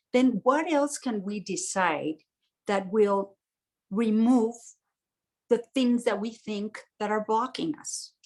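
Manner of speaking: calm, measured teaching voice; calm workshop talk. Acted. Teacher opens the full moon session, calm and measured. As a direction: guide the group gently through the idea.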